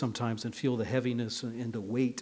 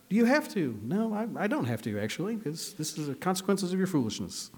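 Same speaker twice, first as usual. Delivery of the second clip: mock whiny exchange; 6 semitones higher than usual. Voicing child, then dad answering.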